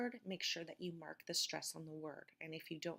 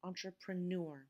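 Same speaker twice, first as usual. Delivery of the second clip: "entrepreneur" with the final NEUR stressed; stress on last syllable. Shown as a demonstration. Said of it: "the syllable after the red line is the stressed syllable".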